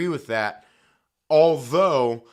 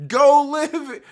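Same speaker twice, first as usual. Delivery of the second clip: higher, louder barked "Go live"; angry shout; 9 semitones higher, 7 dB louder than usual. Real, not acted. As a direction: throw "Go live" at them like an order. Angry rant, telling them off.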